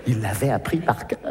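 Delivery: plus grave et plus doux, lent; l'extraterrestre imite la mère; voix d'extraterrestre. Acted. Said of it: "il m'a dit". (voix grave et traînante de mère imitée)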